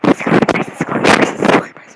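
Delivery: loud, airy squealed freak-out; squealing fangirl. Retold or imitated. Fan spotting a favourite cosplayer, squealing. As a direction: squeal it in breathless disbelief. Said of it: "start squealing".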